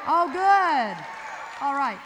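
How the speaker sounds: loud bright call; excited cheer. Real, not acted. Emcee cheering the crowd's eager answer, loud and excited. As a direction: whoop it up to the crowd.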